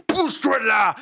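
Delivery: high, loud snapped order; angry yell. Acted. Baba Yaga yells at Dégourdi to move. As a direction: shove him off with your voice. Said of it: "hurle Baba Yaga".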